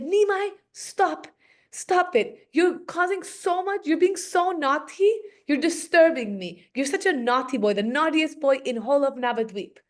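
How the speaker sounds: high-pitched exasperated telling-off, easing down; mild mock scolding. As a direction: scold a naughty boy, lightly acted. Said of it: "you're screaming at me, scolding me".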